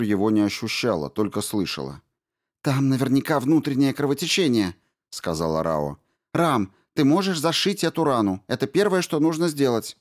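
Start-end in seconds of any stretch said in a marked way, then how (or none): 2.6-4.7 Rao's voice. A narrator's reading. Rao diagnoses. 6.3-10.0 Rao's voice. A narrator's reading. Rao orders robot.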